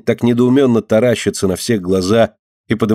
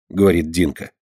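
usual speaking voice

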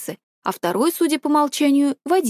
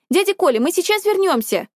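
calling out; 8 semitones higher than usual. A narrator's reading. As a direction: shout it back to the adults over your shoulder. Calling out to uncle Kolya.

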